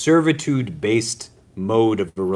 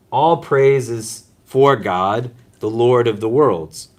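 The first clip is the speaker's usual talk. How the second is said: slow, reverent verse; solemn recitation; 3 dB louder, slower than usual. Acted. Preacher quoting scripture to the congregation, slow and reverent. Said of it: "but it's saying".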